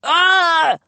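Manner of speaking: high choked gasp; gag. A narrator's reading. Sharp gagging cry. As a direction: Joe being strangled, choked gasp. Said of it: "I gagged".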